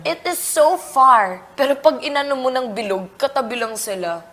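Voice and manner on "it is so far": slow, louder retold amazement; drawn-out imitation of childhood wonder. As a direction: stretch it out in mock awe. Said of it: "sabi ko".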